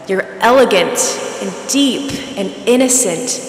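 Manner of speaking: hushed, breathy praise; breathy awe. Acted. Bob praises what he sees, breathy awe. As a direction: savour each word breathily, pausing between. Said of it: "got breathy".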